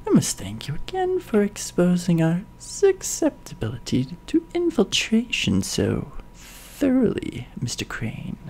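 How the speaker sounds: silky villain, trailing to a whisper; a lightly voiced sneering villain; evilier villain. Villain mocks Mister Crane in a sinister whisper. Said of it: "That's a little better".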